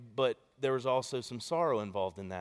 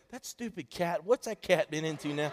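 higher-pitched mock grumble; grumbling wife; 4 semitones higher than usual. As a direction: imitate a wife griping about the cat. Wife grumbles about the cat.

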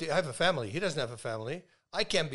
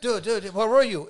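mock excited; 5 semitones higher, 9 dB louder than usual. Retold excited confrontation.

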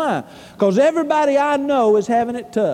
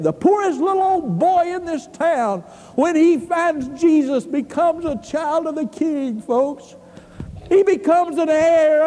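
higher-pitched preacher's delivery; fervent preaching; 5 semitones higher than usual. Real, not acted. Preacher telling the church how Christ makes the poor rich, fervent preaching. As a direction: preach it with lifted voice.

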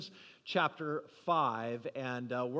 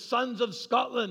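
retold rallying call, pitched up; epic battle speech; 5 semitones higher, 3 dB louder than usual. Leader addressing his Scottish army, mock epic call. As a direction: call out to the troops, imitating a movie hero. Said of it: "he makes that big epic speech".

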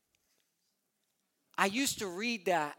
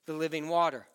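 loud, raised preaching voice; full-force preaching; 5 semitones higher, 8 dB louder than usual. Acted. Pastor preaching hard to the congregation, loud and raised.

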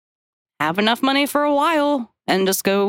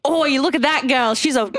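put-on Australian accent; 4 semitones higher than usual. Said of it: "I'm trying to do an Australian accent".

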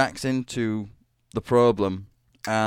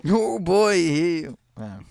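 high, gravelly-free mock sergeant voice, pitched up; lightly voiced gung-ho sergeant; Sergeant Hatred impression; 6 semitones higher, slower than usual. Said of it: "That's the best I can do".

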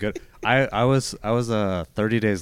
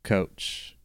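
very slow, stretched let Guppy coach; slow haiku line; 2 semitones higher, much slower than usual. Pretend. Offering the closing haiku line, very slow and drawn out. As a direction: draw out each syllable deliberately. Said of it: "Gary out".

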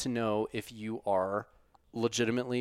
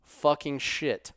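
slow, higher, louder amazement; awed exclamation; 7 semitones higher, 9 dB louder, much slower than usual. Real, not acted. Host marveling at record climb, slow awed exclamation. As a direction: draw it out in disbelief.

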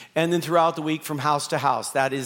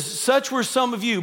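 emphatic, higher; 6 semitones higher than usual. Shown as a demonstration. Quoting Paul, then repeating it.

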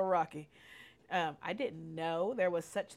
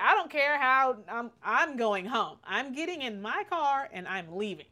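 louder, insistent I don't care how; fed up; 5 semitones higher, 4 dB louder than usual. Retold or imitated. Telling her husband she's driving home, loud and fed up. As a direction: storm off in words.

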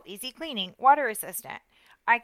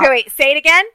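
louder, higher, eager and delighted; excited; 5 semitones higher, 11 dB louder, faster than usual. Retold or imitated. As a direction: call it out, thrilled.

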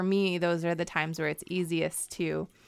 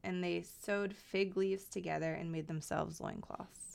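scripture reading. Acted. Reader reads Genesis aloud to the co-host, measured reading. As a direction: read the Bible passage out with care.

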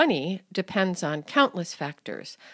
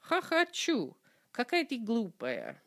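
mocking scorn; 4 semitones higher, 5 dB quieter than usual. Shown as a demonstration. Mocking reply in example.

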